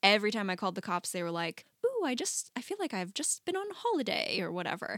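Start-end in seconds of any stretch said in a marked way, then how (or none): 1.8-4.4 high, lilting mock swoon; swooning retold quote. Cops charmed by a Southern accent, mock swooning. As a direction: gush it in a raised, playful voice.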